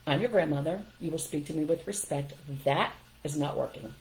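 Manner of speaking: retold calm, firm correction; calm firmness. Grandmother correcting her eight-year-old grandson in the car, calm and firm. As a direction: set the boundary evenly, without raising your voice. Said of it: "I just very calmly said".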